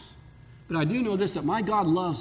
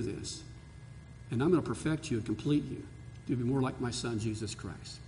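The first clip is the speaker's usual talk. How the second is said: God's reassuring voice. Pretend. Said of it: "He says".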